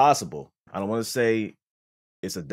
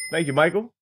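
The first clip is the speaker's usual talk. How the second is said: put-on voice; 10 semitones higher, 8 dB louder than usual. Reads donation in put-on voice.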